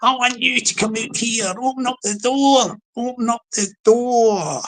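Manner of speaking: hammed-up high-pitched doorstep threat; hitting high notes. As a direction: wail it up high at a closed door. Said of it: "hitting the high notes there".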